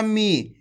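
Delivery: मी with a long, held ee, falling at the end; teacher's sustained मी; drawn-out long vowel. Shown as a demonstration. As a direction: stretch out the ee in मी. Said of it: "इसी प्रकार से आपको इसका उच्चारण करना".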